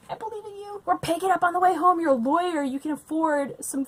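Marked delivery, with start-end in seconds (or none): 0.1-2.0 condescending pep talk; patronizing encouragement. Pretend. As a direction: coo it like to a child. Mock encouragement to the husband.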